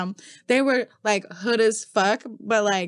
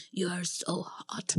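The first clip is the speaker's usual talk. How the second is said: awkward white man; 4 semitones lower, 12 dB quieter, slower than usual. Retold or imitated. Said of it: "just white man".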